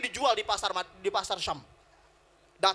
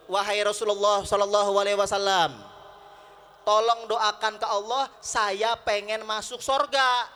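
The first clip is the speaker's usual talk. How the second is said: loud, slowed, lightly acted appeal; earnest petition; 5 dB louder than usual. Old aunt asks the Prophet for prayer, measured appeal.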